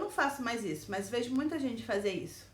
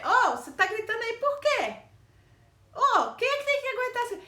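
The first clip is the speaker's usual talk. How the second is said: high, loud call-out at the yelling boss; indignant shout; 11 semitones higher, 8 dB louder than usual. Retold or imitated. Speaking up loudly to the shouting boss in a meeting. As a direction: demand to know why he is yelling. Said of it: "Então eu falei".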